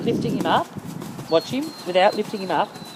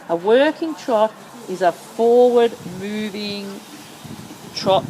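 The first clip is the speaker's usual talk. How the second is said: slow explaining; slower than usual. Shown as a demonstration. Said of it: "working trot, see?".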